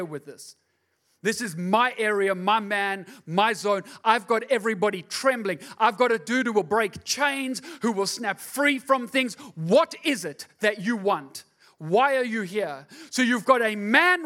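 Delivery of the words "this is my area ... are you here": a hint of a taunting demon, a bit louder; lightly voiced demon claiming his turf; demon's boast. Demon guarding his man from Jesus, mild taunt.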